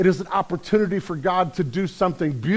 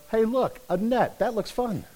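naive fish; 4 semitones higher, 4 dB quieter than usual. Acted. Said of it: "every fish in that area of the Sea of Galilee goes".

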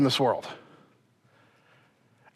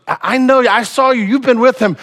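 higher-pitched, insistent finger-pointing; accusing; 5 semitones higher than usual. Retold or imitated. Bystander recognizes Peter by the fire, insistent accusation. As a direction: insist you recognize him.

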